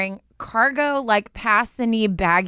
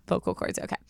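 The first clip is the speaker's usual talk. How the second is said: husky with coffee in the throat; throat clogged; 3 semitones lower, 4 dB quieter than usual. Real, not acted. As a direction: talk through a coffee-coated throat. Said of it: "I'm clearing my throat".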